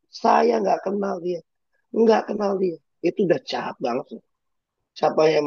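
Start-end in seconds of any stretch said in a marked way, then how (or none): 0.1-2.8 mock denial. Peter denying Jesus acted.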